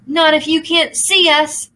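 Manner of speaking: high shouted defiance; shouted retort. A narrator's reading. Aru throws the ball at the demon, shouting. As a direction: shout it back. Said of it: "shouted Aru".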